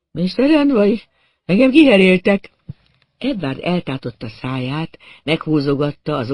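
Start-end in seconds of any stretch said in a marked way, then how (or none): 0.1-2.5 raised, loud cry of dismay; hollow horror. A narrator's reading. Victim telling the narrator of his injury, horrified. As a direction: announce the awful discovery in horror. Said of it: "Tompán kongott a hangja, mint a lyukas fatörzsbe".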